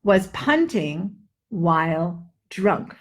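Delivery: slow careful short U phrase; slow drill. Shown as a demonstration. Teacher repeats the drill slowly. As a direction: stretch it out slowly. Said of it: "That's it for the U sound".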